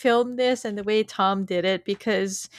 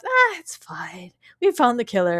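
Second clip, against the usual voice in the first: dismissive; 4 semitones higher than usual. Retold or imitated. Podcaster retelling Lucifer waving off the problem, dismissive. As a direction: mildly imitate waving it away. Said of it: "Lucifer tries to wave it off".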